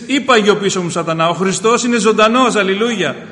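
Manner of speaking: loud, forceful rebuke to Satan; rebuking the devil. Acted. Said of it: "Επιτίμησε το διάβολο και πες". (δυνατή, αυστηρή επιτίμηση)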